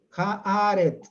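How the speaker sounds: "aret" ending in a "ts" sound, as "arets"; finale in TS. Shown as a demonstration. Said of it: "con T S".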